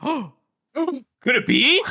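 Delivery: hammed-up gasping amazement; mock suspense. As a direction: stretch it out like a big reveal. Mock suspense before a reveal.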